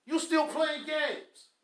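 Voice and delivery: "You still playing games" drawn out slow; scolding a husband, slow and pointed; slow emphasis. Shown as a demonstration. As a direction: lean on every word, slowly.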